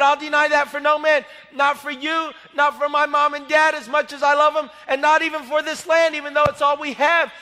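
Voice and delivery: loud, defiant declaration; loud defiant preaching; preaching boldly. Retold or imitated. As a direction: proclaim it like a preacher at full force. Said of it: "I'm talking like this".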